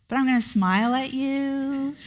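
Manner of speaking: laughing through a sly aside. Retold or imitated. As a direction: chuckle as you hide the refusal.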